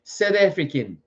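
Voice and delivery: South African said as "Seth Efrikan"; rough South African accent on "South African". Shown as a demonstration. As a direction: tighten the vowels of South African, amateur South African accent. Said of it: "I can't do accents very well".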